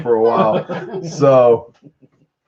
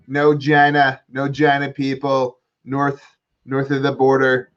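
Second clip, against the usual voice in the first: Trump impression. Host mocking Trump calling Trudeau, light Trump voice. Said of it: "Trump reached out to Trudeau and said".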